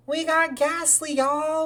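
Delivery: high, drawn-out victory call; loud, excited crowing; thrilled announcement. Real, not acted. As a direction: announce the catch to your viewers. Celebrating a catch in the game.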